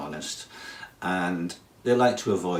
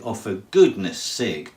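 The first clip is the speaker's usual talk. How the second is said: mock exasperation; 5 dB louder than usual. Scolding someone doing something silly.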